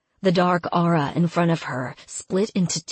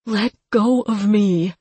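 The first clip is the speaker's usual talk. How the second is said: loud, higher desperate shout; 5 semitones higher, 5 dB louder than usual. Acted. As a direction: yell it while struggling free. Struggling against her captor.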